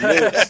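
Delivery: "Newts" drawn out slowly with an ooh vowel; mock the Philly "Newts", stretching the ooh; imitated hard ooh. Quoting the co-host's slip for notes, "Newts" with a long hard ooh. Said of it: "Pronounce it with a hard ooh sound".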